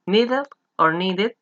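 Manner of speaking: very slow "Needed" then "needed", ending each clearly; slow contrast. Shown as a demonstration. Teacher comparing two pronunciations of needed slowly. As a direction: draw out both endings of "needed". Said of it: "los dos son correctos".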